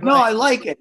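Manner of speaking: hammed-up player refusing the dentist; stubborn player. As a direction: insist on keeping the broken tooth. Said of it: "And Pasternak's like".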